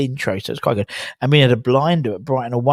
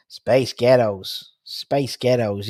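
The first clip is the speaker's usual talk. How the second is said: drawn-out mock American accent; much slower than usual. Shown as a demonstration. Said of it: "an American accent".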